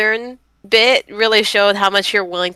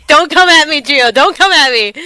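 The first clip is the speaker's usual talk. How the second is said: louder, higher laughing plea; playful defensive; 7 semitones higher, 6 dB louder than usual. Real, not acted. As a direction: tease while backing off, laughing.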